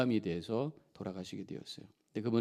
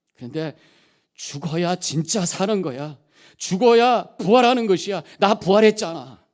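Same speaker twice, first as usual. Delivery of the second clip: voice of the Lord; 4 semitones higher, 10 dB louder than usual. Retold or imitated. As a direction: gently comfort the pastor, then swell into a triumphant proclamation. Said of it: "주님의 음성이 들리는 것 같아요". (부드럽게 시작해 점점 높고 크게 외치는 주님의 음성)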